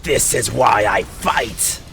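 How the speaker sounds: slow, grim warrior voice; Raiden voice. Acted. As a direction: say it slow and bitter. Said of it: "this voice kinda sounds like Raiden".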